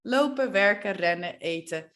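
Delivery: lopen, werken with no final n; dropped n. Shown as a demonstration. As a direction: swallow the n. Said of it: "pronounce the last E as an E".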